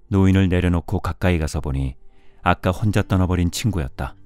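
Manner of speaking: ordinary delivery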